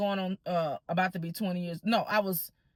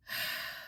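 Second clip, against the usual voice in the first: re-enacted heavy sigh; big sigh; 10 dB quieter than usual. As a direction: let out a long, defeated breath. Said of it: "I let out this big sigh".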